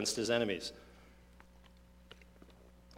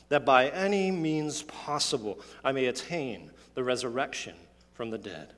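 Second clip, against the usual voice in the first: measured, solemn reading of scripture. Acted.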